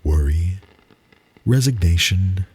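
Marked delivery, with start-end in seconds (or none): none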